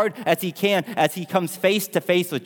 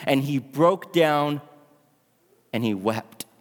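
solemn scripture reading; 2 semitones higher than usual. Acted. Preacher reads the verse of Peter's denial, slow and weighted. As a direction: read it out deliberately, pausing before the last phrase.

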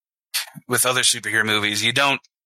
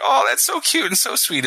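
1 high gushing delight; 10 semitones higher than usual. Retold or imitated. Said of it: "he's just like".

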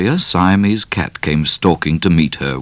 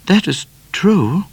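high, slower musing; a thoughtful, slower "That is true"; thoughtfully; 13 semitones higher, slower than usual. A narrator's reading. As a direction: weigh it up slowly. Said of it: "said Miss Laura thoughtfully".

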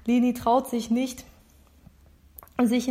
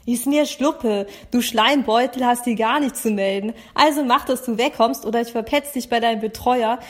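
insulting brush-off with some heat; mildly angry dismissal; 3 dB louder than usual. Acted. Overseer orders Niklas to clear off, heated. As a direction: tell the rival off, mildly heated. Acted quarrel, rival told to clear off.

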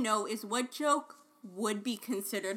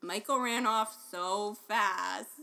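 slow sarcastic drawl on "so fast"; sarcastic reading; slower than usual. Shown as a demonstration. Guessing how the example was meant, drawn-out mock sarcasm. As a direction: stretch "so fast" sarcastically, then break into laughter. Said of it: "like, you could say it".

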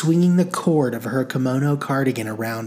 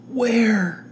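croaked; 10 semitones higher than usual. A narrator's reading. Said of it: "she croaked".

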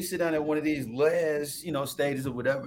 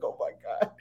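breathless whispered dismay; whispered oh my God; 5 dB quieter than usual. Retold or imitated. To his friend at the club, a horrified whisper. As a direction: gasp it under your breath in horror. Retelling panic at strip club.

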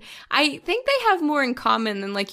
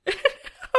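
teary laugh. Real, not acted. Embarrassed at crying on air, teary laugh. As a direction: laugh at herself while crying. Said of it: "I'm so sorry I'm crying".

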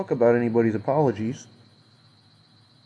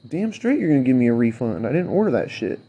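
louder, heated comeback at the manager; angry retort; 6 dB louder than usual. Real, not acted. Ranting at the wing place manager, heated and loud. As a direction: bite back hard, really fed up.

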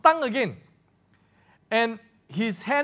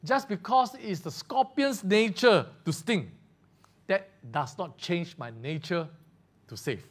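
calm reply; 4 semitones lower than usual. Retold or imitated. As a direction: answer gently, letting it fade. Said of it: "the old man calmly replied".

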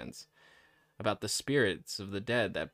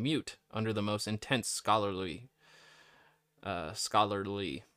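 talking through peanut butter; mouth full of peanut butter. Real, not acted. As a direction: mouth full, words sticking. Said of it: "I have peanut butter in my mouth".

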